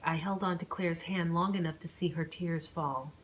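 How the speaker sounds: steady read-aloud storytelling voice; story narration. A narrator's reading. Vlogger reading her own story chapter, narrating. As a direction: read the chapter to your viewers.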